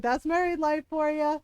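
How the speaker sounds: knowing jibe in a mock Scottish accent. Scottish guys commiserating with dad on marriage, imitated accent. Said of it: "full, full Scottish".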